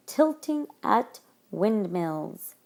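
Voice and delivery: "Tilting at windmills" read slowly, word by word; slow, measured "Tilting at windmills"; drawn-out example reading. Shown as a demonstration. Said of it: "we see the I".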